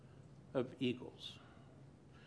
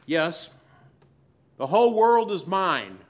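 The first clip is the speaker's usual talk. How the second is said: loud, proclaiming voice of God; voice of the Lord; 2 semitones higher, 9 dB louder than usual. Acted. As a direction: declare it like God over the world. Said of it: "the Lord says".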